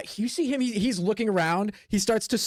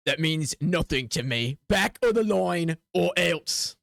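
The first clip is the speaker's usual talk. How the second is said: dismissive guard; slower than usual. Acted. Guard refuses and threatens.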